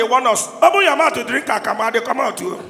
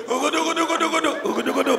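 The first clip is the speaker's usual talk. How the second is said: put-on gulping baby noise; 5 dB quieter, much faster than usual. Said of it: "your pikin go dey do".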